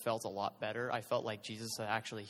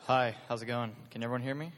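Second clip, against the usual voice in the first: louder, closer to the mic; 3 dB louder than usual. Real, not acted. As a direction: speak up into the mic. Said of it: "Into the mic".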